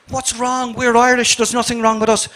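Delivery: high, loud, outraged retelling of their protest; indignant protest. Retold or imitated. Retold protest at racist landlady.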